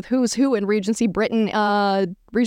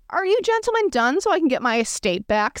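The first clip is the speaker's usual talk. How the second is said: higher-pitched, lightly disdainful; smug repulsion; 6 semitones higher than usual. A narrator's reading. Elizabeth dismisses the men, smug repulsion. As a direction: ask as if faintly disgusted by them. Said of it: "her voice tinged with a smug repulsion".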